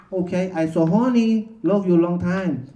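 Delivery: lightly put-on movie quote; film line impression. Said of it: "remembering a line from the movie Full Metal Jacket".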